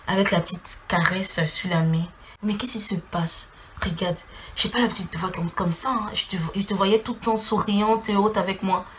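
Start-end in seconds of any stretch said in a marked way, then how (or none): 2.4-8.9 the ex whispering tenderly, softer; soft, intimate whisper of concern; tender hush. Retold or imitated. Ex whispering tenderly to her on holiday. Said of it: "il te regarde dans les yeux tout tendrement".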